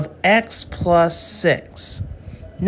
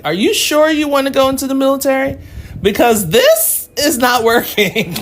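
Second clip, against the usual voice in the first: mock scolding; 8 semitones higher, 4 dB louder than usual. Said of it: "I had to break it down like".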